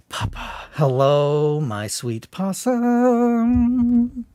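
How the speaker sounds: put-on high sing-song baby-talk greeting; silly cooing voice. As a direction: coo it like greeting a pet.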